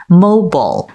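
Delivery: mobile as MOH-bul, second vowel a schwa; weakened vowel. Shown as a demonstration. Co-host explains the weak vowel, reduced pronunciation. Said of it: "被弱化成为A的音".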